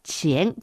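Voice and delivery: 遅延 said as Mandarin qián; 中国語の発音. Shown as a demonstration. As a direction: pronounce 遅延 like the Chinese word qián. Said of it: "遅延と発音します". (「遅延」を中国語のqiánの発音で)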